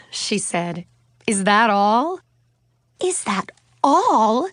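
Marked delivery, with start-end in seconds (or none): 3.0-4.5 slow, high-pitched disbelief on ALL; aghast gasp. A narrator's reading. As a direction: repeat it in shock, stretching "all". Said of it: "Suzanne gasped".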